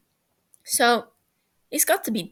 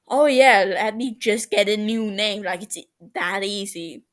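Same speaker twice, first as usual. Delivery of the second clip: sarcastic; 5 dB louder than usual. Acted. Sarcastic reply.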